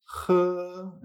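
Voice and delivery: J as a gentle, sustained h sound; very soft J. Shown as a demonstration. Teacher showing the Chinese H, J softened and held. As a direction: breathe out the J lightly, without scraping. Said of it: "pero bastante más suave".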